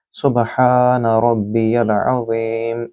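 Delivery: drawn-out tasbih, vowels held long; slow recitation. Shown as a demonstration. Teacher repeating the tasbih for students, slow recitation. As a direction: recite it calmly and slowly. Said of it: "इसको तीन मरतबा आपने तिलावत करनी है".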